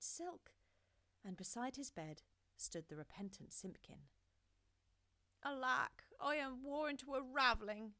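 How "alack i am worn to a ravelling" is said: a touch higher and louder tired cry; an exhausted old man's lament; weary old tailor. A narrator's reading. The tailor waking to Simpkin, weary lament. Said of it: "said the Tailor of Gloucester".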